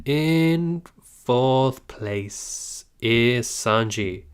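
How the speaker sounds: slow, drawn-out reveal; ranking announcement. Acted. Streamer announcing the next rank to chat, slow and grand. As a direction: stretch it out like a game-show host. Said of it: "yes, drum roll".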